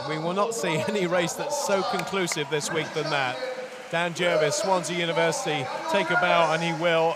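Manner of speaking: roaring race call; excited commentary. Real, not acted. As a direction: hail the swimmer at the finish. Commentator hails winning swim.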